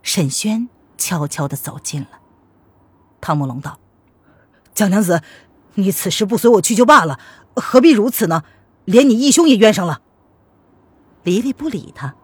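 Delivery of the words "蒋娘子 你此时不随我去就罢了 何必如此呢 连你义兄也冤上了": louder, reasoning male character; lightly voiced remonstrating suitor. Suitor reproaches the young lady over her brother, remonstrating.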